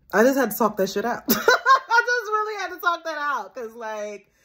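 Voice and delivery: quick, laughing through the words. Real, not acted. Wrapping up her vent to viewers, laughing. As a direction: let the laugh spill out, real.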